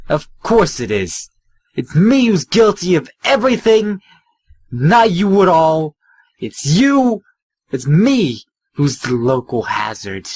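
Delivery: mock guilty, high and loud sarcasm; sarcastic. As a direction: overplay the blame sarcastically. Sarcastic mock self-blame.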